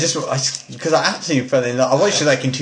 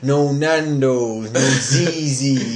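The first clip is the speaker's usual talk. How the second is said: slow complaint; much slower than usual. Retold or imitated. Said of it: "He's like".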